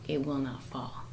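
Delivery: soft, breathy, near-whispered close; dropped to a whisper. Real, not acted. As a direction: let the punchline sink to a whisper. Preaching the parable's climax.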